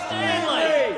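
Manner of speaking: shouted name. Real, not acted. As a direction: yell the name across the room. Shouted heckle across the chamber.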